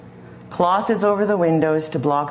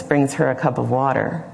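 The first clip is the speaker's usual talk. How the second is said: ordinary talk, nothing marked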